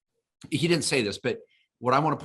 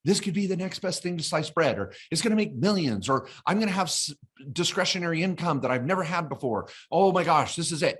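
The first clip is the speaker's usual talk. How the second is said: higher, starry-eyed gushing; mock giddy dreamer; giddy excitement; 5 semitones higher than usual. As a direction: sell it like the next best thing to sliced bread. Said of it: "We're like".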